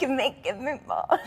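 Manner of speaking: high, put-on pop-star voice; playful pop-diva imitation; a pop singer. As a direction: mimic a pop singer's squeezed delivery. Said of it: "a pop singer".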